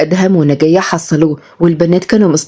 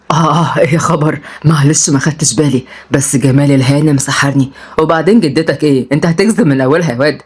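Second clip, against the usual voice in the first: lightly voiced old charmer, lower pitch; smitten grandfather; 4 semitones lower than usual. (جدّ معجب ومرتبك شوية)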